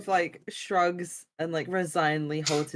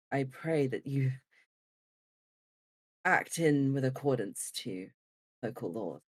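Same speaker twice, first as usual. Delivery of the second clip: lower, measured, pompous voice; stern lawkeeper voice; 5 semitones lower, 4 dB quieter than usual. Acted. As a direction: lecture them like a self-righteous officer. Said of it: "Kind of like".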